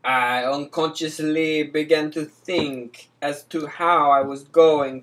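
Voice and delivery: put-on Italian accent. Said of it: "you sound like Mario the Plumber".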